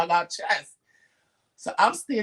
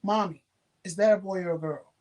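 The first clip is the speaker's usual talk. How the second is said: put-on cute little girl. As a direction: lightly imitate a sweet little girl asking. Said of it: "first she was cute with it".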